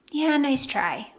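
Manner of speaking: slow, dry and knowing nice try. Shown as a demonstration. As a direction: let the nice try land slowly, unimpressed. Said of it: "one-liners that might work".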